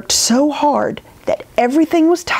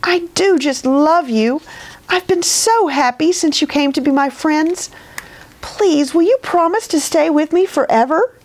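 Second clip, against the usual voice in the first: put-on high, earnest child's voice; heartfelt pleading; 7 semitones higher than usual. A narrator's reading. Edith begs Mister Bear to stay forever, affectionate pleading.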